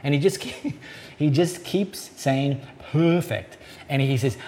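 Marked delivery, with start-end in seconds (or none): 2.9-3.6 bad Korean-Australian accent. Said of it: "a very bad Korean, Australian accent coming".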